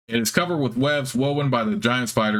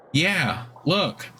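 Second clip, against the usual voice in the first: higher, eager creature voice; proud spider; 7 semitones higher than usual. Acted. Spider proudly showing its fangs to the hero, eager and higher. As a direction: show off the fangs gleefully.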